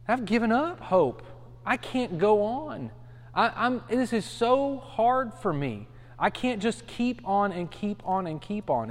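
slow, weary, giving-up voice; broken despair. Retold or imitated. Preacher voicing Jeremiah emotionally broken, slow and weary. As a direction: let it sag like someone out of hope.

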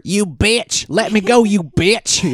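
very high-pitched mock scream; imitated screaming. Host as man dragged by a tiger, mock screaming. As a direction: squeal it as a comic imitation of panic.

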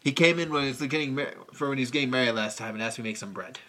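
low, hushed, brooding lament; Nicolas Cage's character. Retold or imitated. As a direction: mope it out like a wounded loner. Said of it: "He's like".

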